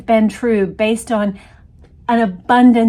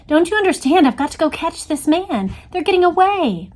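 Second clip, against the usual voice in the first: higher, pleading on the edge of tears; desperate, near tears; 7 semitones higher than usual. A narrator's reading. Jean pleads with the agents, desperate, near tears. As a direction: beg them to let her chase him. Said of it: "now on the verge of tears".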